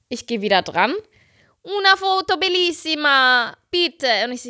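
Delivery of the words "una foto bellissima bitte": high, slow Italian pleading; drawn-out singsong plea in Italian accent; Giovanni. Retold or imitated. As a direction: imitate an Italian begging down the phone. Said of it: "ruft er wieder an".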